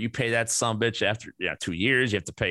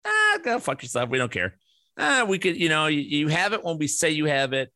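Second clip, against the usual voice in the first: higher, sneering imitation of a dismissive clerk; mock couldn't-care-less office lady; mocking a flippant receptionist; 5 semitones higher than usual. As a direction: parody her brush-off, a touch hammed-up. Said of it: "the way she sounded".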